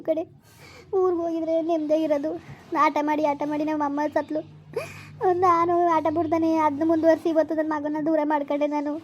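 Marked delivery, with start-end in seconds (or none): 5.3-8.9 tearful words through sobs; crying. Acted. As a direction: weep while confessing your guilt. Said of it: "ಯಾಕೆ ಅಳ್ತೀರಾ". (ಅಳುತ್ತಾ ಮಾತನಾಡುವುದು)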